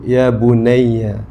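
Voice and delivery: slow, tender call to a son; tender address. Shown as a demonstration. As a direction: stretch it out gently, like a loving father. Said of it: "orang Arab apabila nak sebut lembut".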